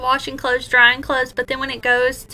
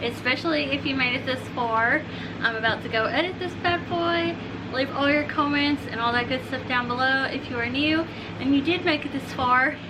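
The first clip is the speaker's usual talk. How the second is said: breathless and softer; talking while winded; out of breath; 4 dB quieter than usual. Real, not acted. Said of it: "I'm out of breath".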